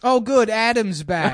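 loud, high, drawn-out put-on comedian voice; Seth Dickfield. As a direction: welcome him in a slow caricature voice. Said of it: "this is just a cruel impression".

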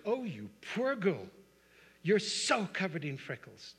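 slow, high, sugary pity; a mock-sorry teacher cooing. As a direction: talk down to her like a poor thing. Teacher pitying a freckled girl.

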